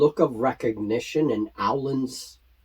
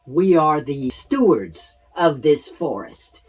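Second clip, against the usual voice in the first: louder, rising anger toward the end; angry Clarabelle; 3 semitones higher, 4 dB louder than usual. Acted. Clarabelle cuts in against the goblin, angry. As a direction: scold the goblins like an outraged steward. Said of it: "cuts in and says".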